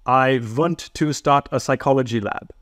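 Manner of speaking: lightly put-on German accent; a mild hint of a thick German accent. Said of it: "my terrible German accent aside".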